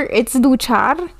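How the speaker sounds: "duchar" said slowly in Spanish, doo-CHAR. Shown as a demonstration. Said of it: "It sounds like you're douching".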